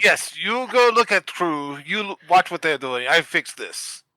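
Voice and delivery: put-on emphatic Russian-accented orders. Player ordering Sparky to watch the crew, Russian accent. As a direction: boss the helper around in a Russian accent.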